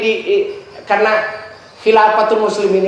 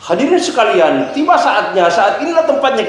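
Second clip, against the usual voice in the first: rising, building speech voice; orator's opening; 3 semitones higher than usual. Shown as a demonstration. Preacher demonstrating to students, rising orator's call. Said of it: "ada namanya retorika".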